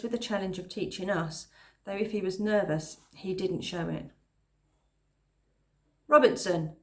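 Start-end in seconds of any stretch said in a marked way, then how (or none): 6.1-6.8 barked. Acted. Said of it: "he barked at an unsuspecting boy".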